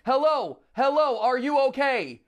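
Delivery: high, loud hammy panic; overacted training-tape distress cry; stilted old movie melodrama. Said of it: "all the over-the-top cheesy acting".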